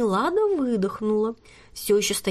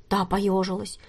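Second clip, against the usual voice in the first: ordinary delivery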